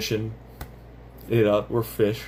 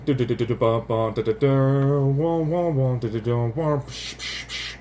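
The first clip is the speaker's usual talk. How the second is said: orchestra mimicry. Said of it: "an orchestra over here going".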